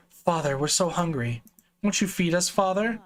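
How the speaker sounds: put-on creepy child. Creepy children plead for food.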